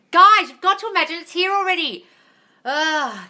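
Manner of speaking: loud, high outburst ending in a groan; high-pitched, fed-up shout; exasperated plea. Real, not acted. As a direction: plead with followers who won't listen. Exasperated by repeated timeline question.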